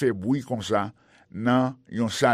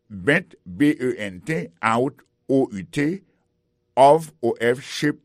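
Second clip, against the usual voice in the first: spelled slowly; 4 dB louder than usual. Shown as a demonstration.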